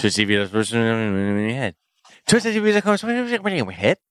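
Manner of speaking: very fast, rushed delivery. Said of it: "I said that so fast".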